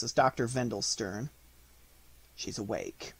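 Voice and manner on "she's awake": soft, lower hushed voice; said softly. A narrator's reading. Doctor announcing his patient is awake, soft voice. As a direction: speak gently, very softly. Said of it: "he said softly".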